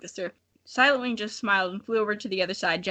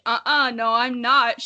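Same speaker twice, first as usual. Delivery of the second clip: hissed; 2 semitones higher, 5 dB louder, slower than usual. Acted. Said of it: "she hissed".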